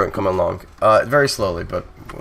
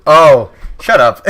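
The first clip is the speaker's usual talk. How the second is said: loud, drawn-out groan of realisation into laughter; mock-annoyed, cracking up at a bad pun; high, laughing outburst; laughing protest; 5 semitones higher, 9 dB louder, much slower than usual. Real, not acted.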